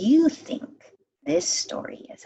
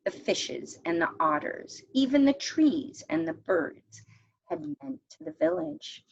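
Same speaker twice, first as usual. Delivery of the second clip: story narration. A narrator's reading. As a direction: read the tale to the class, gently paced. Teacher reads a folk tale aloud.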